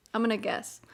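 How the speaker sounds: whispering. Real, not acted. Whispered aside.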